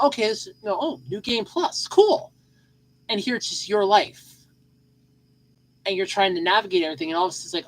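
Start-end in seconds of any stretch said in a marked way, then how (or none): 0.0-2.3 mock excited. Imagined reaction, jumps high.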